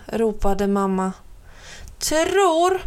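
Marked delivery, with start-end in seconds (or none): 2.0-2.8 high rising shout; indignant call. A narrator's reading. Little brother calls back to doubting mum, high and indignant. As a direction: throw the word back at her. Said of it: "ropade han".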